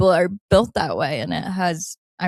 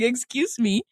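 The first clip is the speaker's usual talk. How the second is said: indignant, high and loud; huffy mock complaint to a boyfriend; annoyed sarcastic whine; exasperated girlfriend; 4 semitones higher, 4 dB louder than usual. Acted annoyed text to a boy.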